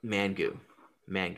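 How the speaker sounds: "Man goo" as two separate words, man then goo; drawn-out man goo. Real, not acted. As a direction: say "Man goo" like an unfamiliar word. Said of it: "sounds like somebody singing mango for the first time".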